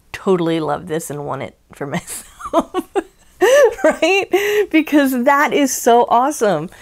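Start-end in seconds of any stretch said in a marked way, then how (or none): 2.0-6.7 excited gushing. Real, not acted. Gushing over the book theme.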